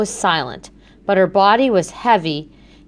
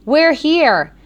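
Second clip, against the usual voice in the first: higher, bright call of arrival; excited arrival; 8 semitones higher, 4 dB louder than usual. Acted. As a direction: announce it with a lift of glee. Arriving at the restaurant, relief.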